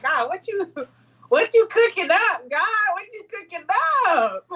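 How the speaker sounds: high, giggling, squeaky and breathless; laughing at God. Retold or imitated. Guest retelling her delight to God, laughing high. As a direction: laugh through it, thrilled and amazed. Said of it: "And I was like".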